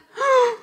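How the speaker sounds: high sharp gasp of shock; mock gasp. Shocked at surrender prayer. (jadeo agudo de espanto fingido)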